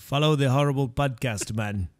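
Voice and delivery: mock Caribbean lilt; Caribbean-sounding accent. Co-host trying the podcast plug, mock Caribbean accent. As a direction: botch Aussie into a Caribbean accent. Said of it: "everything I do sounds Caribbean".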